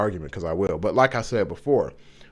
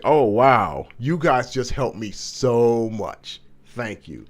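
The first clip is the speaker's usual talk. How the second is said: mock gushing gratitude, loud then drawn out slow; sarcastic praise from Job to his friends; sarcastic thanks; 5 dB louder, slower than usual. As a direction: ham up the thank-you so it drips sarcasm. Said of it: "This is sarcasm".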